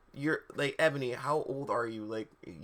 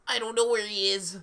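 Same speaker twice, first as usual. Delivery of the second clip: high, whining character voice; Lupin's voice; 8 semitones higher than usual. A narrator's reading. Threatened with torture, answering in a high put-on voice. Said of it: "said Lupin".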